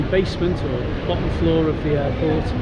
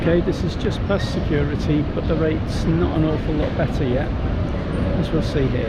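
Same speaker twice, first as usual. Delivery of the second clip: muffled through a mask; talking behind a face mask; 3 dB louder than usual. Real, not acted. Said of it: "Excuse the mask".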